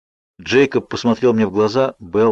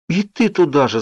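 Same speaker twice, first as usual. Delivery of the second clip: higher, groaning protest; 7 semitones higher than usual. A narrator's reading. Bella groans at Jacob's apology, pitched higher. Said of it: "застонала я".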